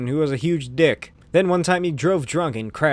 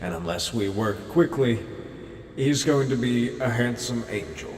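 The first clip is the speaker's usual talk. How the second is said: dreamy distant voice; 4 semitones lower, 4 dB quieter than usual. Acted. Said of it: "an ethereal voice says".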